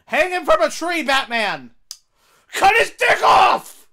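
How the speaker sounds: high yell building to a roar; mock bloodthirsty shout. Viewer urging Batman on, mock savage yelling. Yells violent orders at Batman onscreen.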